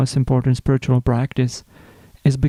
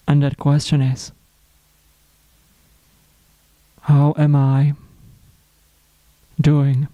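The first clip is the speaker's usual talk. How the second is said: guided meditation. Acted. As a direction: guide them inward, unhurried, pausing between phrases. Leads a reflective check-in.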